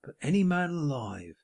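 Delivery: unctuous, sanctimonious self-pity; smug hypocrite holding forth; Pecksniff. Acted. Pecksniff's long speech.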